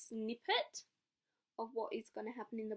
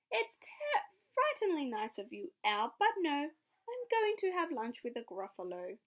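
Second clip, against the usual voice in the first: bold little mouse; 4 semitones higher, 5 dB louder than usual. Acted. Mouse answers owl.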